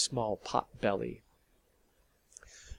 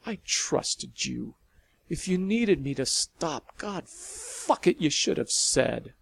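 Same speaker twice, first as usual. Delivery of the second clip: angry and hurt; 4 semitones higher than usual. Acted. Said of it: "angry and hurt".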